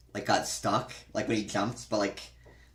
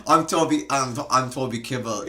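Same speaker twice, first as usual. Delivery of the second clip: higher, louder mock country accent; Toby Kebbell country accent; 4 semitones higher, 7 dB louder than usual. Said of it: "and I can play a country accent".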